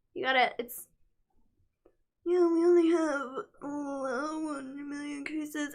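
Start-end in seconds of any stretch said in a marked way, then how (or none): 2.3-5.8 slow drawl with the uh held long. Showing the right way to do a Trump impression: imitating Donald Trump. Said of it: "puts his lips like that".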